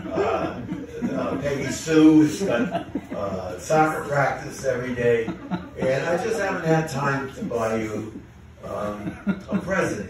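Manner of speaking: breaking up while telling the punchline build-up; can't keep a straight face, words through real laughter; laughing through the line. Real, not acted. Telling the joke to friends, cracking up laughing.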